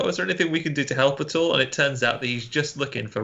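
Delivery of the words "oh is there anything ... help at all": higher, fast eager offer; overly helpful campers; mock polite eagerness. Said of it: "they go".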